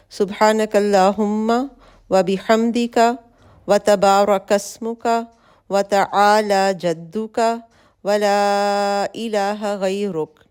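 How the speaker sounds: slow, measured Arabic recitation with care for each letter; prayer recitation. Shown as a demonstration. Teacher recites the opening supplication to her students slowly. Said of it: "دعائے استفتاح".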